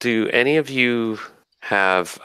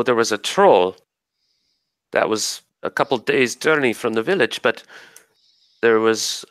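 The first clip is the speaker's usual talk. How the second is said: slightly raised fairy voice telling of the ogre; lightly held forest spirit voice; 3 semitones higher than usual. Acted. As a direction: keep a hint of the spirit while telling the tale. GM holds the spirit's voice.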